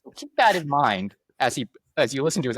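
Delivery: high-pitched host addressing the listeners; hammed-up aside to an imaginary audience; mock podcast host. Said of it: "go into hosting a podcast live".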